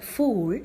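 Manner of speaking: "fool" with a long, close "oo". Shown as a demonstration. Teacher inviting students to try the word, long "oo" in "fool". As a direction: nearly close the mouth on the vowel of "fool". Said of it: "pronouncing that word".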